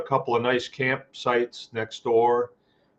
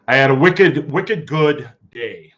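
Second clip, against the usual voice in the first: Maine wicked; 3 semitones higher, 8 dB louder than usual. Shown as a demonstration. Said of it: "throwing a little Maine vernacular at you".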